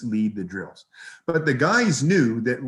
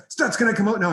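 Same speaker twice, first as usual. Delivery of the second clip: pleading Biss; 9 semitones higher, 4 dB louder, faster than usual. Retold or imitated. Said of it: "then he's like".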